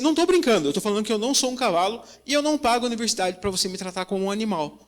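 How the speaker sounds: fast indignant protest at the teacher; heated protest. Retold or imitated. Confronting the professor in class.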